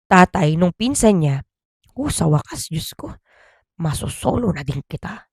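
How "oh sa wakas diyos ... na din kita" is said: quiet, lowered mock relief; softer relieved sigh. Father to his wife, softly relieved and sly. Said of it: "Sabi daw nung tatay".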